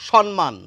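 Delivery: সম্মান said as "shon-man", with an n; n pronunciation. Shown as a demonstration. Teacher showing viewers a common variant, সম্মান with an n sound. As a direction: say সম্মান with dental n before the m. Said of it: "দন্ত ন উচ্চারণ করছেন".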